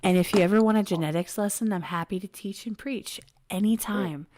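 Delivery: sexy voice. Acted. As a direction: read it like a sultry operator. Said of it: "The sex operator voice again".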